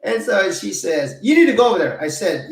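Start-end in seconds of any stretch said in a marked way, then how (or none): 1.2-2.0 high, loud mock Chinese-accented order; bossy stranger in a put-on accent; mock accent, high and insistent; imitating Chinese accent. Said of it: "And she's Chinese".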